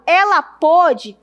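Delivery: PÔDE with a closed, stressed ô; closed-o "pôde", set off for contrast; past-tense closed O. Shown as a demonstration. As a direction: round the first vowel of "pôde". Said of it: "no passado".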